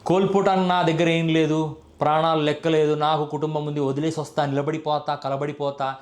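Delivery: lightly voiced filmy hero, dying away; mock film dialogue. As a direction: parody a film hero's vow, trailing off. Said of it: "Trivikram రాసిన పనికిమాల డైలాగులు".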